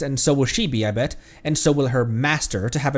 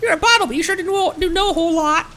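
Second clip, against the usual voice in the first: high Paimon voice; 3 dB louder than usual. Acted.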